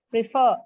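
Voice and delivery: "prefer" said as preFER, second syllable stressed, falling; stress on FER. Shown as a demonstration. Teacher showing the class stress on preFER. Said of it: "the second syllable is stressed".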